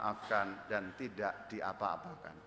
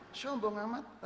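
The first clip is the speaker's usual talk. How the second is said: mock arrogance; 10 semitones higher than usual. Priest mocking how arrogant a head pastor would sound, mock haughty. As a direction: say it like a haughty boss. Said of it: "Padahal kan waktu di Subang pangkatku rendah".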